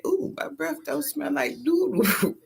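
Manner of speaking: high, slow squeal of delight; high, drawn-out happy exclaim. Real, not acted. Delighted morning discovery.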